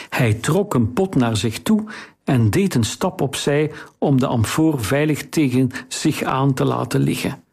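ordinary delivery, nothing marked

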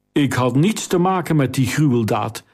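ordinary delivery

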